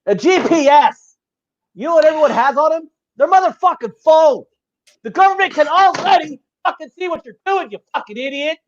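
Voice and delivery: rising furious yelling at a conspiracy theorist; angry rant. Real, not acted. Ranting at a conspiracy-believing friend, furious shouting. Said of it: "fucking heated tonight".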